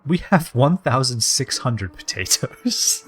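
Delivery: slow, hammed-up Irish accent; mock Irish, savoring every word; put-on Irish accent. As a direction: draw it out in a playful Irish accent. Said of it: "talk in this accent".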